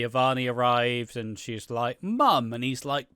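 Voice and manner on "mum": mock surprise. Avani greets her mother.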